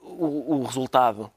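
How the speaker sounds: ordinary talk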